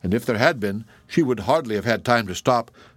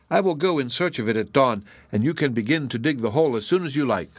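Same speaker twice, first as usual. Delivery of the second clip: lightly and gaily. Acted. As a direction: sound carefree to comfort him. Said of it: "had spoken lightly and gaily".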